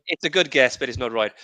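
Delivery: Roy Walker Irish catchphrase voice; Irish accent. Retold or imitated. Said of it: "that was definitely Irish".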